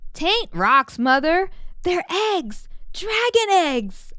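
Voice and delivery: rising, eager correction with a drawn-out ending; excited exclaim. Acted. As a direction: proudly set Ma straight. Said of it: "I exclaimed".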